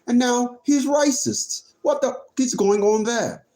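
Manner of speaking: light mock British accent, chatty; put-on British accent. Streamer reacting to a message about his posting, put-on British accent. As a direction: play at being a Brit. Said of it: "Great Britain accent".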